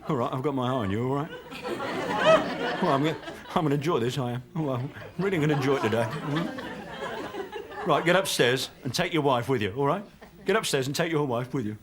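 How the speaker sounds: lightly voiced bus inspector, gloating; Blakey. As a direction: savour the power, mock menace.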